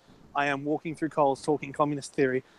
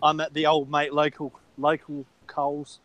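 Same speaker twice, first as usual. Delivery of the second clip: muffled throat mic sound; slower than usual. Real, not acted. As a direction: through a throat microphone. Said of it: "throat mic".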